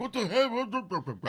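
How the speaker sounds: high, slow, stunned mock outrage; drawn-out high disbelief; baffled what the hell. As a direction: stretch it out like you can't believe it. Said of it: "And they'd be like".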